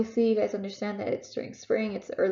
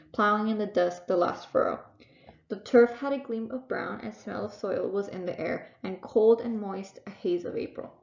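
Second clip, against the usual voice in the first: poem reading. Acted. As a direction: read it like a poem to students. Reads a Carl Sandburg poem.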